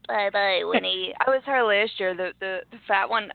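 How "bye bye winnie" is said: a hint of a movie witch; light witch impression, barely voiced; Hocus Pocus witch. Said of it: "the witch on Hocus Pocus".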